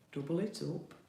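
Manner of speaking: broad Yorkshire vowels on the words; real, everyday Yorkshire accent. Real, not acted. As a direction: let the Yorkshire accent come through. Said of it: "Sounded a bit Yorkshire then".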